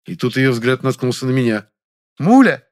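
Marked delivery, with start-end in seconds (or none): 2.2-2.7 high, loud surprised cry; delighted exclamation. Acted. Actress spotting an old friend, surprised loud exclamation. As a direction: call out his name in surprise. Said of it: "воскликнула она".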